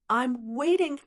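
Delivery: lightly taunting, pitch lifted; cold smile. A narrator's reading. Long Zhanwu leaves Long Fei with a coldly smiling taunt. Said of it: "said with a cold smile".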